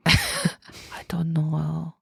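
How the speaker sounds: slow, hushed mock Asian accent; low, drawn-out Asian accent imitation. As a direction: feign confusion in Asian accent. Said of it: "the Asian one".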